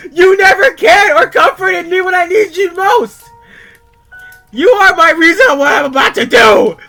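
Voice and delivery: screamed, high-pitched accusations, dragged out word by word; furious rant. Acted. Freddy raging at his barnyard friends in his letter, furious screaming. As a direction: scream it at the friends who wronged you.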